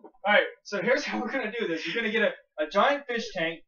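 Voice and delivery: lightly voiced TV show host; a hint of an eager science show host explaining the plan; Mythbusters host. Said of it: "So now at Mythbusters".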